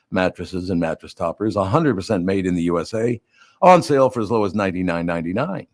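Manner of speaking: upbeat radio ad read, pitching the sale; host-read ad. Acted. Radio host reading a sponsor spot to listeners, ad read. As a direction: sell it like a live radio spot.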